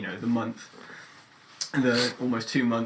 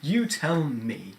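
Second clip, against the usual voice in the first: very slow, drawn-out sarcasm; slow sardonic put-down; sarcastic; 3 semitones higher, much slower than usual. Acted. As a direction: stretch each word out, superior and sarcastic. Playing the sarcastic option.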